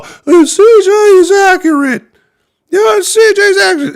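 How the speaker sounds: high, slow, sneering mock voice of the doubters; mocking falsetto. Streamer mocking fans who call C J accurate, falsetto sneer. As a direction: parody the fans who defend him.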